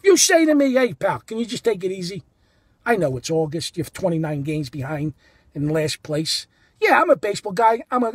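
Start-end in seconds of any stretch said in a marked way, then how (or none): 0.7-6.5 lower, easygoing man-to-man appeal; nice. Acted. Ballplayer calling a fan over, nice and low-key. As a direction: ask it nicely, pitched down. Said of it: "Nice, like, nice".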